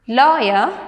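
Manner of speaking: "lawyer" with the weight on LAW; stress on first syllable. Shown as a demonstration. Teacher reading words to students, "lawyer" stressed on LAW. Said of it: "stress on the first syllable".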